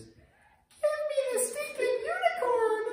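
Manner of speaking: slow, very high, loud fed-up scream; a mom at her boiling point; furious yell. Retold or imitated. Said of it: "and then you just hear this".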